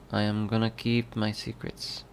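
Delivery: put-on breathy Irish accent; Irish accent, rushed and uneven. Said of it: "I'm doing the Irish accent really well".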